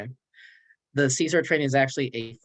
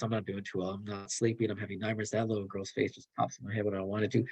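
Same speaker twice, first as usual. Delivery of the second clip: hint of a struggling worker; 6 dB quieter than usual. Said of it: "I'm gonna just level with you".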